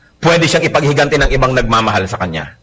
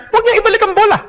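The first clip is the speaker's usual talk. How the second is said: high squeak; faster than usual. Acted.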